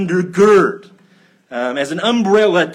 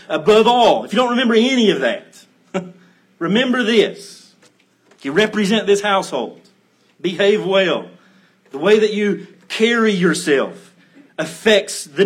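parent's firm instruction; 3 semitones higher than usual. Retold or imitated. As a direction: mimic a parent stressing what matters most, half laughing. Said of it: "your parents may say, as mine did".

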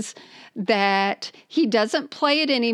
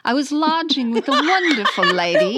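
put-on British accent; 3 semitones higher, 4 dB louder than usual. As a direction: read it as a plummy Brit. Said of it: "here's my British accent".

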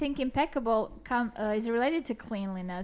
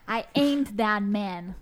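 African American accent; slower than usual. Shown as a demonstration. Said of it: "grammatically speaking, incorrect".

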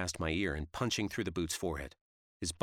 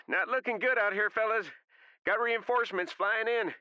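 radio voice; 5 dB louder than usual. Acted. Radio call, heavy breathing.

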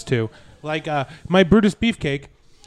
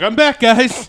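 Big Show voice; 7 semitones higher, 6 dB louder, slower than usual. Retold or imitated. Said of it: "He's like".

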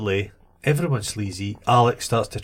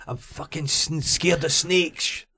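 acted fear; 5 semitones higher, 4 dB quieter, slower than usual. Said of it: "He should have said".

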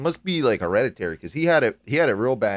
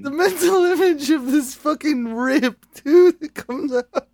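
high mock voice; 13 semitones higher, 4 dB louder, slower than usual. Imagining the guy exploding.

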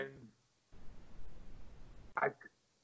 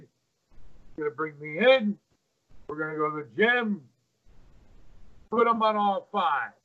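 imitating Jimmy; 3 semitones higher than usual. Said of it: "This is my imitation of Jimmy".

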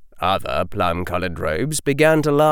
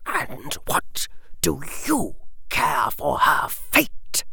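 slow, hushed and menacing; cold whisper; 4 semitones higher, 5 dB quieter, slower than usual. A narrator's reading. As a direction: whisper it like a veiled threat. Lucius voiced.

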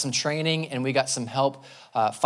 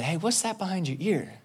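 put-on a lightly raised, playful voice for a child; playful trickster; 6 semitones higher, 3 dB quieter than usual. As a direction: tease the little kid, pitched up. Man doing coin trick on toddler.

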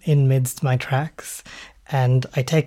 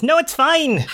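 laughing; 12 semitones higher than usual. Acted. Laughing reaction to the gun.

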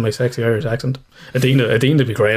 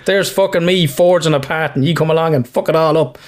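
hammed-up cranky rant, pitched up; comic grumbling with raised pitch; cranky old fella; 4 semitones higher than usual. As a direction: play the aggrieved old grump, half laughing. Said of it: "that is called a cranky old fella".

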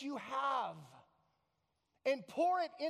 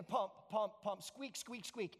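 measured pump noises with quieter squeaks; acted-out pumping; 4 dB quieter, slower than usual. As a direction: voice a rusty pump working gently. First pumping, nothing comes out.

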